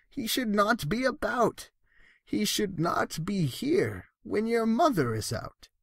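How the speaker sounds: the fussy fish begging the cat to leave; worried fish voice. Acted. Fish pleads, Cat in the Hat story.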